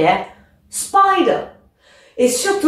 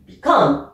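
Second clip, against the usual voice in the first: "Become" with COME stressed; light BE, weight on COME in "Become"; stress on second syllable; 5 semitones lower than usual. Shown as a demonstration. Teacher models a verb, second syllable stressed. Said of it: "est sur la deuxième syllabe".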